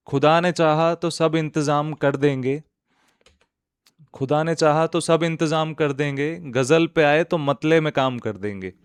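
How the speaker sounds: declaimed verse, lifted and evenly phrased; ghazal recitation. Acted. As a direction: recite the opening couplet to an audience.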